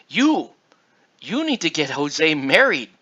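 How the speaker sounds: mock yelling uncle. Uncle tells speaker to get Jose married, mock yelling. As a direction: imitate an uncle yelling an order. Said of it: "starts yelling at me, and he's like".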